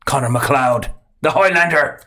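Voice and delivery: weak Scottish accent, Highlander as "hoilander"; attempted Scottish accent; bad Scottish accent. Shown as a demonstration. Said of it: "That actually wasn't a very Scottish accent".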